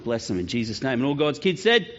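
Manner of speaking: put-on gentle prayer over the children. Pastor prays over the kids before they go upstairs.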